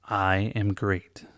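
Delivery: building from plain to loud; swelling affirmations, ending loud. Shown as a demonstration. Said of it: "Getting louder each time".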